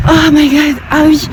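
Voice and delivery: high, loud sudden recall; surprised exclamation. Real, not acted. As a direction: blurt it out in surprise.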